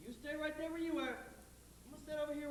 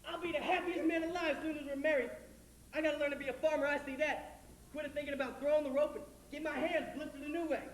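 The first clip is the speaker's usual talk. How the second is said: happy; 5 dB louder than usual. Acted. Curly's joyful plans.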